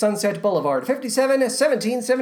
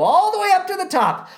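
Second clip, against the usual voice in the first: climbing to the top; 9 semitones higher, faster than usual. Acted. Host announcing the countdown's climb, pitch soaring. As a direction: voice swooping way up high.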